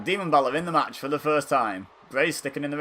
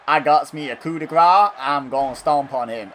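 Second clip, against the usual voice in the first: lightly put-on Southern American accent; 6 dB louder than usual. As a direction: mimic a wrestler with a touch of Southern American. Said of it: "I did a Southern American accent".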